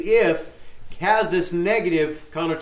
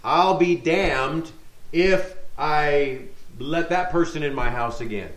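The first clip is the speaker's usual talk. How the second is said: profane oath; 3 semitones lower than usual. Retold or imitated. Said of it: "to us is used in a very profane way".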